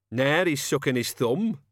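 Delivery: odd mocking kid voice; childish jeer. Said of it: "Cat's Eye jeered".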